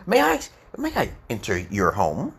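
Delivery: a deferential request with swooping pitch; passive, heartfelt politeness. Shown as a demonstration. Teacher showing how to ask to enter a home, passive and emotional. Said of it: "you're being very passive and legit".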